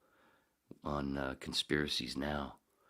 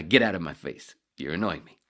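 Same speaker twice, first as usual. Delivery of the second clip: 1 annoyed shout; 10 dB louder than usual. Retold or imitated. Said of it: "and I".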